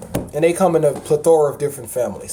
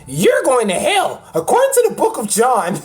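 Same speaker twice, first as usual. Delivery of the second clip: wag a finger like a self-righteous churchgoer; mock preachy believer; 6 semitones higher than usual. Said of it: "They be".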